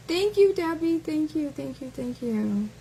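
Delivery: fake-sweet thank you; sarcastic thanks. Real, not acted. Thanking a commenter in mock gratitude.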